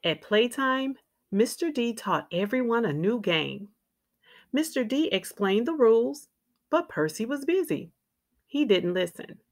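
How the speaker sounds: put-on lively, clearly phrased read-aloud for young children; picture-book narration. A narrator's reading. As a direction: read a children's story with expressive ups and downs.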